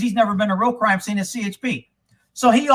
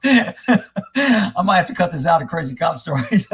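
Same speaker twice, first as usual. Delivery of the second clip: laughing; 4 semitones lower, slower than usual. Real, not acted. Laughs at own story.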